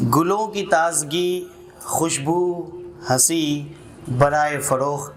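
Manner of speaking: measured, lilting recital with repeated lines; poem recitation. Acted. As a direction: savour each line like a poet at a mushaira. Recites a nazm at a gathering. (नज़्म पढ़ने का अंदाज़)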